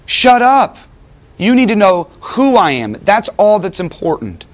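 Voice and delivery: high, forceful voice of God; God's rebuke. Retold or imitated. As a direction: bark it out as God silencing Job. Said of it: "And what did God tell him?".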